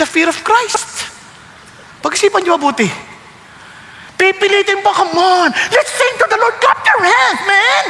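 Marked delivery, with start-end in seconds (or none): 4.9-7.8 mock worship leader. Mocking a pushy worship leader.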